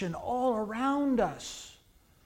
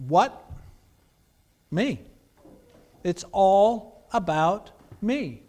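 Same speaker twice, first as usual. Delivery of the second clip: self-centred Elijah; 5 dB louder, slower than usual. Retold or imitated. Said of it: "he'd say".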